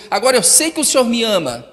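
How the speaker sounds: rising high and loud, slowing at the end; full-force preaching; preaching climax. Acted. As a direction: soar to the peak.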